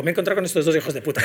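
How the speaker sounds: quick quote breaking into laughter; quoting him with a giggle; laughing punchline. Retold or imitated. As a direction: rush the insult out with a laugh.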